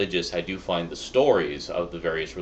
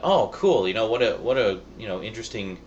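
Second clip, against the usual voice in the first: higher-pitched, louder burst on the opening, then easing; excited reaction; 4 semitones higher, 3 dB louder than usual. Retold or imitated. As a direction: recall an enthusiastic first thought. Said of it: "I was really excited".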